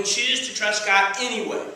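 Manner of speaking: emphasis landing on "anyway"; stress on anyway. Shown as a demonstration. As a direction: lean on the word "anyway". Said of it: "put the emphasis on the anyway".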